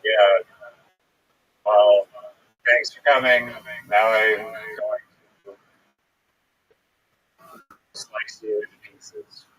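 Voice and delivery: lightly voiced killer dropping the act; sinister villain reveal. Villain reveals herself at the end.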